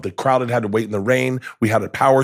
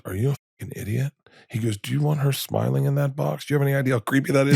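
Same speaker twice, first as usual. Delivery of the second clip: quick, exasperated dad, softer; dad's exasperation; 3 semitones higher, 5 dB quieter, faster than usual. Retold or imitated. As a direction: scold him for being an idiot.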